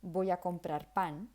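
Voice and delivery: "pan" in Spanish with an unaspirated p; no puff of air on "pan"; Spanish pronunciation. Shown as a demonstration. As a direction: native Spanish p in "comprar pan". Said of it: "it doesn't sound the same".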